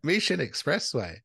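lightly Japanese-accented Mission Expressway. Shown as a demonstration. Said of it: "like, a Japanese accent".

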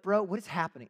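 acted-out touch of bewildered exasperation; exasperated. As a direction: protest like someone who is done. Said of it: "Homeboy's just getting exasperated".

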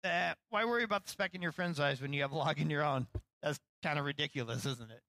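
easygoing, gently teasing question; friendly. Retold or imitated. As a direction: say it as a friendly aside among friends. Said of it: "I think he was saying something like".

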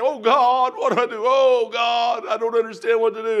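loud, high pleading cry; anguished praying aloud. Retold or imitated. Man on his knees asking God what to do, loud pleading. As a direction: re-enact a desperate call to God. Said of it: "I'm on my knees praying".

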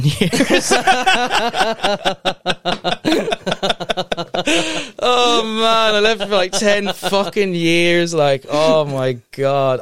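laughing through the words, high and bright. Real, not acted. Telling his mate about the licence, laughing. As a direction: crack up while telling it.

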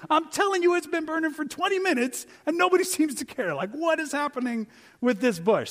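high, excited astonishment at the bush; excited gawking. Pretend. Preacher imitating a startled onlooker, excited and high. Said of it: "No, you'd be like".

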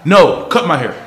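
loud, laughing, exasperated demand; fed-up customer. Retold or imitated. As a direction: drag out each word like a furious regular. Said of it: "the bro was like".

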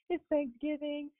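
fast, high, laughing protest about cooking the turkey; excited retelling. Retold or imitated. Retelling her excited reply to boss.

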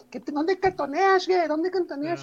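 sing-song camp character voice; el Púas. Retold or imitated. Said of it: "un personaje de Omar Chaparro que era el Púas". (voz aguda y amanerada)

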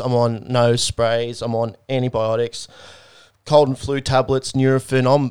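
drowsy and drugged up; sedated. Real, not acted. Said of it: "I'm drugged up today".

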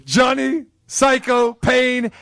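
slow, booming name call; announcer shout. Acted. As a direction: bellow the name like introducing him to the arena. Host introduces the clip.

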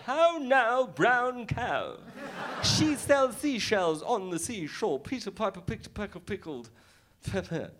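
mock Queen's English elocution; over-enunciate like the Queen's English. Comic showing how he thought he sounded in America, Queen's English. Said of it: "I was speaking the Queen's English".

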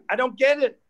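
can't believe how dumb people are; exasperated. Real, not acted.

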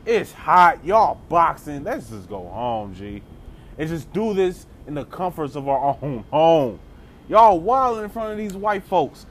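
put-on whiny kid, done with it; lightly voiced fed-up child. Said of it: "They're just like".

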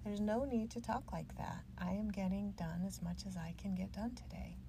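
lightly put-on calm, matter-of-fact firmness; mild adult yoga voice. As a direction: calmly talk back to the inner critic. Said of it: "I use that adult yoga voice sometimes on Ugly Betty".

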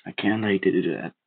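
a hint of a stern calm stranger; warning. A narrator's reading. Stranger blocking the boy from his brother, warning. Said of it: "he warned me".

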